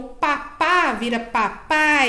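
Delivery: "papá" then "papai", vowels drawn out; word-building demo. Shown as a demonstration. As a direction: stretch "papai" to show the added final sound. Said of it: "ou aumentar uma letrinha".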